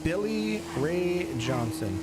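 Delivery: slow, high southern drawl; southern twang. Shown as a demonstration. Streamer introduces his roleplay character, southern twang. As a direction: stretch the name out with a southern twang. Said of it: "He's got this southern twang".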